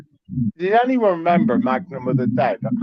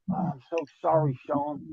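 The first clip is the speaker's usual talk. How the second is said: mock apology; 8 dB quieter than usual. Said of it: "And Steve would have to say".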